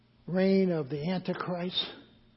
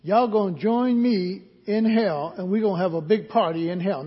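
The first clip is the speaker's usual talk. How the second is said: lightly voiced gloating devil, louder, rushed at the end; mock Satan taunt; 5 dB louder than usual. Pastor voicing Satan inviting everyone to hell, mock taunt. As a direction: tease them like a gleeful tempter. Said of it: "he's saying".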